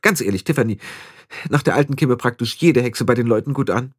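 put-on slightly high, self-assured young witch; conceited young witch, frank. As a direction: confide it with vain confidence. (eingebildete junge Hexe, von sich überzeugt)

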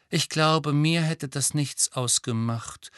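slow, thoughtful musing. Acted. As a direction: muse on it slowly. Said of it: "fügte sie nachdenklich hinzu".

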